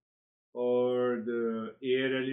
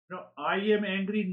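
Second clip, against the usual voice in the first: mock angry claim; 5 semitones higher than usual. Shown as a demonstration. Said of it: "don't say it".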